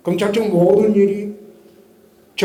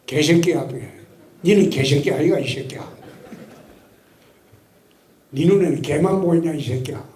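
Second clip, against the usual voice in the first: retold cursing; 3 semitones lower than usual. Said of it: "욕하길래 같이 욕했어요".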